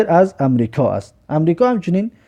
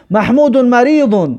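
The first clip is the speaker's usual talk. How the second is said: slow, raised, carefully spaced words; slow model reading; 7 semitones higher, slower than usual. Shown as a demonstration. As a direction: sound out each word for the class. Teacher reads Arabic example sentence.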